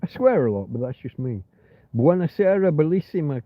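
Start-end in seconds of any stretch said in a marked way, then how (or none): 1.9-3.4 Italian greeting. Shown as a demonstration. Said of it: "buonasera, bellissima is, is beautiful".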